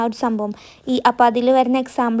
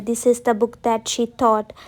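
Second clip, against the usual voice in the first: each word spaced for writing; slow dictation; much slower than usual. Shown as a demonstration. Teacher dictating a sentence to students, very slow. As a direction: dictate slowly so students can copy. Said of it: "എഴുതിയില്ലേ".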